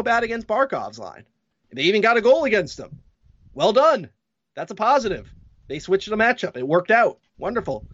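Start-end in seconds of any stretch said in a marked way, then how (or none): 3.5-7.9 sarcastic praise. Real, not acted.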